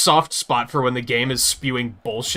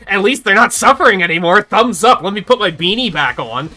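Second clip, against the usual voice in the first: mock cheery Snow; 6 semitones higher, 7 dB louder than usual.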